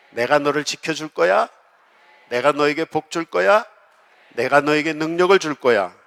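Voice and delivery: preacher voicing God's promises to the congregation, swelling from earnest to fervent; God's call, building. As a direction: build God's invitation step by step to a fervent peak. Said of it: "그냥 하나님이".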